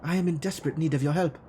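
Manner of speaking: lightly put-on German accent for Frau Mueller; a hint of a stiff German accent, formal and guarded; faux German accent. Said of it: "this awful faux German".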